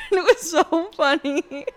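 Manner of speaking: high, loud, slow laughing words; cracking up. Real, not acted. Vlogger amused by the crying contestant, cracking up. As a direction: squeal it out through real laughter. Cracking up at her own imitation.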